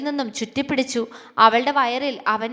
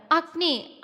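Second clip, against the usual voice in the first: whiny protest; 3 semitones higher, 4 dB quieter, much slower than usual. Acted. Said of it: "അവൾ ചിണുങ്ങി".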